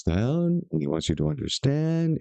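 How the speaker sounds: imitating a soothing talker with lifted phrase endings; patronizingly explain, tipping each phrase end upward; mock hypnotic condescension. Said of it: "supposed to be hypnotic".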